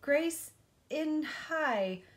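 excited high call of the name; shouted. Acted. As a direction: shout it out like a happy kid. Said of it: "shouted Ralph".

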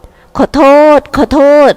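high, slow, drawn-out sorry; playful apology. A narrator's reading. Vipada hugging offended Jarika, playfully apologetic. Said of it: "วิภาดาหัวเราะ หล่อนพลิกตัวมากอด".

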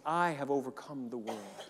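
with a laugh. Acted. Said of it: "the Christed one in you, saying".

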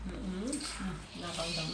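chewing while speaking; humming with food in mouth; mouth full. Real, not acted. Seen 0: Left woman bites, holds food at mouth; chews while humming.

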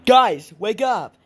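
loud, drawn-out calling; urgent wake-up call. Acted. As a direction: call out loudly to rouse sleepers. Waking the sleeping friends.

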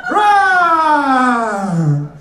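roar, half laughing; laughing lion roar. Pretend. Comic playing a roaring lion.

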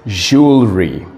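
"jewelry" said as two smooth syllables, JOOL-ree; correct pronunciation. Shown as a demonstration. Teacher correcting a student, "jewelry" pronounced correctly. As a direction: say "jewelry" clearly as a model, falling at the end. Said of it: "The correct pronunciation is".

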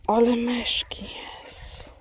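hushed whisper after a laugh; whispered aside. Real, not acted. Vlogger whispers to viewers about the mice, hushed whisper. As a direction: breathe it out under a whisper.

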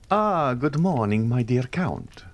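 a dandy greeting his patron, slowly; a hint of a foppish young man; lightly voiced gay young man. A narrator's reading. Andrea greets the Count.

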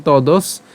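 "তদস" cut after the dental s; stop at dental s. Shown as a demonstration. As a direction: say "তদস" ending on a clear s sound. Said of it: "দন্তাস পর্যন্ত উচ্চারণ করলাম". ("তদস", দন্ত্য স পর্যন্ত)

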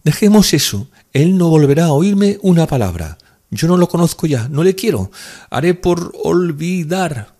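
high, loud, distressed woman; wounded, emphatic high voice; bitter renunciation. A narrator's reading. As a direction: declare it over, slowing painfully at the end. Woman bitterly renounces her lover.

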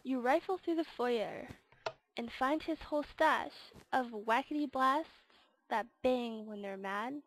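rhythmic storybook narration; game verse read-aloud. Acted. Gamer reading out the Grinch quest, storyteller voice. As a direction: read it out in measured rhyming phrases.

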